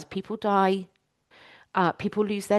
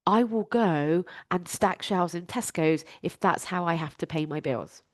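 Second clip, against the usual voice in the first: kind self-talk; 2 semitones lower than usual. Shown as a demonstration. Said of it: "I'm saying that with so much kindness".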